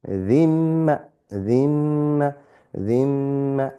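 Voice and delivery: dhimma with a held nasal mm; dhimma with ghunna. Shown as a demonstration. Teacher drilling dhimma with a nasal hold. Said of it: "nasal sound, ghunna".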